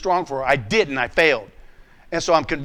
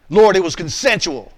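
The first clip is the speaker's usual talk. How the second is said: louder, justifying; defensive protest; 5 dB louder than usual. Retold or imitated. A man arguing with God, louder and defensive. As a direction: push the excuse out louder. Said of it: "Now watch my responses".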